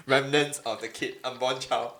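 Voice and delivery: laughing through the words; giggling while you say it. Real, not acted. Joking about a cut-up child.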